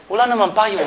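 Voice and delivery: quiet deadpan reveal; deadpan punchline. Retold or imitated. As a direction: drop the line quietly for the joke. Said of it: "Sabi ng babae".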